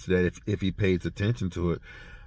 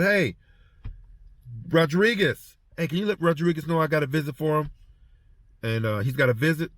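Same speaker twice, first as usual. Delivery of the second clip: higher, quick call over the intercom; 5 semitones higher than usual. Retold or imitated. Guard calling an inmate over the intercom, brisk higher call. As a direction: call it out brightly.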